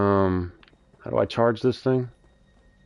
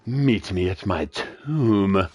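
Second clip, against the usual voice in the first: creepy ghost voice; much slower than usual. Acted. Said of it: "That was just plain creepy".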